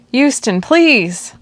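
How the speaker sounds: high, drawn-out anguished cry; desperate plea. Acted. Arn kneeling by Houston's limp body, crying out slow and high. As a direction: beg him slowly to wake up.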